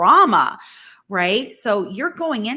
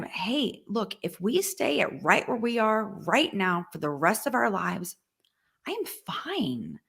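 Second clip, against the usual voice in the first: softer, fading into a whisper at I am fine; tender reassurance; 4 dB quieter than usual. Retold or imitated. Wife telling her stressed husband she is fine, tender and hushed. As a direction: reassure him gently, ending in a whisper.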